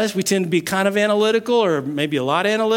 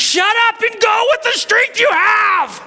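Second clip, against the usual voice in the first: much higher, yelled command; impatient shout; 14 semitones higher, 4 dB louder than usual. Acted. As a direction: explode with lost patience. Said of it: "I would not make a patient angel".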